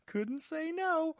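slow, high cowboy drawl; lazy cowpoke drawl. Acted. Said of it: "Cowboy Voice Week".

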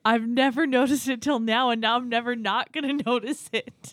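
excited. Real, not acted. Amazed at Ray Romano resemblance.

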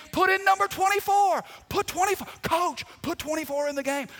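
high, loud yell from the stands; yelling mom. Retold or imitated. Mom yelling from the stands at the coach, loud and high. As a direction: shout it to the coach like a proud mom. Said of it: "she'd be yelling all game".

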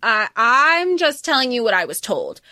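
imitating a timid, tearful witness; half-crying cowering excuse. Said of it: "cowering into her seat".

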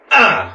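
mock limp effort noise; feeble swing grunt. Cop goes to club the skunk, feeble mock grunt. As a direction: imitate a pathetically weak swing. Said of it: "just the weakest ass limp wrist".

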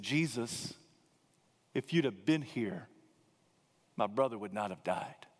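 a touch of tears in the voice; lightly voiced grieving sister; grieving Martha. A narrator's reading. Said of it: "was gripped with grief".

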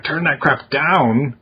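slow, drawn-out mock parental order; half-hearted, stretched-out mock yell. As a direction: imitate a yelling dad without really shouting. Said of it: "Or yelling at him".

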